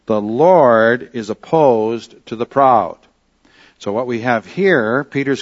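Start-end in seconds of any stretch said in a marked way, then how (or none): 0.1-3.0 "Lord" stressed, read slowly and louder; slow emphatic reading. Shown as a demonstration. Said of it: "the Greek translation of it says".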